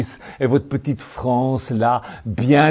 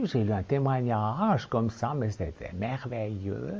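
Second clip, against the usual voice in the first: put-on Swiss accent; 4 dB quieter than usual. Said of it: "je prends mon accent suisse".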